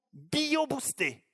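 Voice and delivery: bio-boostés drawn out slowly and high; careful new word. Acted. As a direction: sound out bio-boostés like a strange term. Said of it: "comment est-ce qu'il m'a dit".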